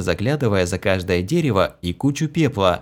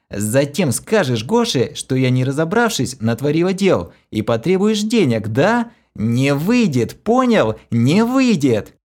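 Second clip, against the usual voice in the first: furious threat; 5 semitones higher than usual. A narrator's reading. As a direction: hammer each word as a threat. Kira threatens, accusing.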